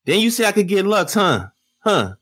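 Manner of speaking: high-pitched kid-like mocking voice; J C impression. Podcaster mocking a battler on camera with Beasley, kid-like voice. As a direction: mimic him like a pestering little kid. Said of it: "Why you making him sound like a kid".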